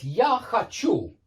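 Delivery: хочу with the weight on its last syllable; stress on the ending. Shown as a demonstration. Teacher shows learners the shifting stress, хочу stressed at the end. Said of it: "The stress changes".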